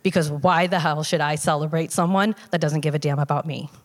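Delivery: understated, deadpan threat; deadpan anger. Retold or imitated. Sick dad warns husband about Christmas decorations, deadpan. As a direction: retell a bitter warning with little inflection. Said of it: "deadpanned my husband and said".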